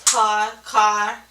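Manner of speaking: "car" with the k pulled to the back of the tongue; car held back. Shown as a demonstration. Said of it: "put their finger on the tip of their tongue".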